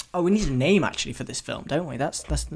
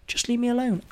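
mock whine; 9 semitones higher than usual. Mock exasperation at critic.

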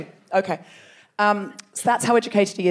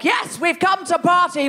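tag; 5 semitones higher than usual. Retold or imitated. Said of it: "and they were like".

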